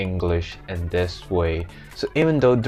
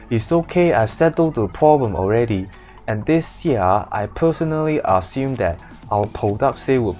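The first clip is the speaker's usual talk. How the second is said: reassuring Hong Kong English, flat tone; calm the boss in a Hong Kong accent; 3 semitones higher than usual. Acted. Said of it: "all these words in Hong Kong accents".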